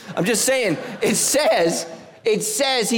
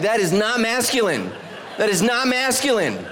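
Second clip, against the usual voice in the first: higher laughing insistence; laughing protest; 4 semitones higher than usual. Retold or imitated. Pastor quoting himself to his wife, higher and laughing. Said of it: "I'm like".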